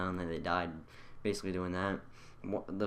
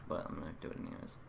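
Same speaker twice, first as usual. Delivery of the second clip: mutter; 3 semitones lower, 9 dB quieter, faster than usual. Real, not acted. Quiet aside.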